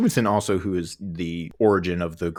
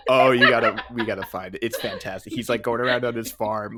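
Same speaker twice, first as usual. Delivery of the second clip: words broken by real laughter; laughing while talking; 2 semitones higher than usual. Real, not acted. Podcaster cracking up over a funny video, laughing. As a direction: laugh through the sentence, barely holding it together.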